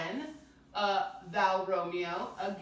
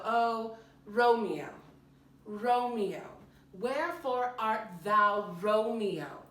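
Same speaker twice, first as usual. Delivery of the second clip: louder, declaiming Juliet, reaching toward Romeo; Juliet calling out; 3 semitones higher, 5 dB louder, slower than usual. Shown as a demonstration. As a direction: call out to Romeo below the balcony.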